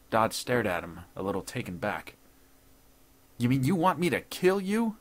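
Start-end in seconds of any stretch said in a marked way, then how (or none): 3.4-5.0 high, loud, astonished question; incredulous. A narrator's reading. Intruder taken aback by judge's request, incredulous. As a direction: climb high in disbelief.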